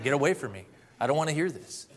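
angry retort. Retold or imitated. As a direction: imitate an angry man brushing someone off. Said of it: "to get very angry".

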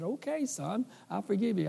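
voiced forgiving mother. Mom forgiving her son, retold softly and tenderly. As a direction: lightly play a mother gently forgiving.

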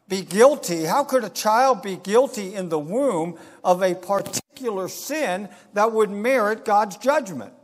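slow, pointed preacher's questions; emphatic preaching. Real, not acted. Preacher posing a hard question to the congregation, emphatic. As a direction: press each question home with drawn-out key words.

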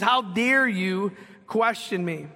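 mild indignation, drawn out slowly; slow, measured mock outrage; angry, prideful quote. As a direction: stretch out the affronted challenge. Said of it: "He's, he's angry".

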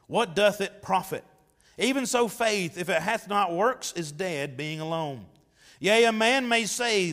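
measured, declaiming KJV reading voice; scripture reading. Acted. Preacher reading James aloud to church, solemn declaiming. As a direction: proclaim the verses to the congregation.

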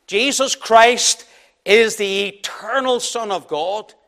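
slow, every word weighed; emphatic statement. Shown as a demonstration. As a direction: lay down each word like a creed. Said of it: "I stress the point tonight".

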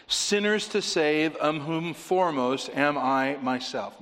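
slow, loud and high, pressing every word; emphatic. Shown as a demonstration. Preacher stressing Paul's words to the congregation, slow and emphatic. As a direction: lean hard on "Sinners to save, of whom foremost am I myself". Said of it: "very emphatic syntax".

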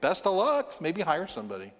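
a flippant son brushing off his father, lightly mocked; casual teenage brush-off. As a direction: shrug it off like a lazy teen. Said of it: "a son doesn't just say to his father".

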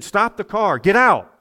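retold screaming. Preacher retelling a corrupt policeman's roadside order, mock scream. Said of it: "he was screaming at me".

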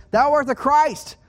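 high, slow proclamation; ringing, drawn-out declaration of faith; bold declaration. Acted. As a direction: proclaim it as Peter's confession. Voicing Peter's confession of faith.

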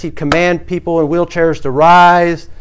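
slow, booming faith healer command; mock faith healer. Preacher mocking a faith healer's booming command. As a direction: ham up a healer ordering the lame to rise.

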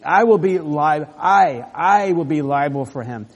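Judah's emphatic pledge. Acted. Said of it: "you could translate it".

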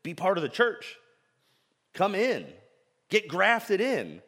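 Paul begging his people to come in, mildly anguished; anguished pleading. Acted. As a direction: plead from the heart. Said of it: "with unceasing anguish".

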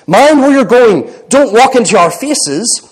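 lightly acted surly warning. A narrator's reading. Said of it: "in a surly voice".

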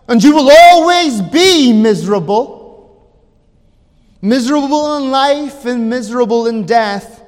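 loud, emphatic pronouncement; stern pulpit warning. Retold or imitated. Preacher warns the young man.

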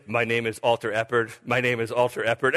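dazed mimic. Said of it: "he was like".

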